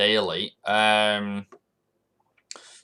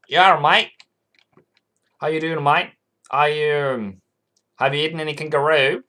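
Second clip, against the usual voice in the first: imitating an Australian greeting, a bit higher and louder; hammed-up Aussie mate talk; mock Aussie accent; 4 semitones higher, 3 dB louder than usual. Greeting sister-in-law in Australia with mock Aussie accent. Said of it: "I said".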